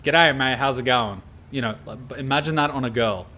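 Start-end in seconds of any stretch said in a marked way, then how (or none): 0.0-1.2 a light mock Australian greeting; stereotypical Aussie. Telling viewers how the girl sounded, in a light mock Australian accent. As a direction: toss off a hint of a stereotypical Aussie "G'day, mate". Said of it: "the stereotypical".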